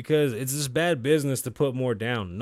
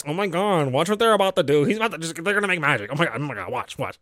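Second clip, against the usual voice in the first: mock gushing, a bit louder; imitating excited Melissa; 3 semitones higher, 3 dB louder than usual. Mocking Melissa's gushing over the guests, excited. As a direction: mimic an eager fangirl hyping the moment. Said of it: "when Melissa's like".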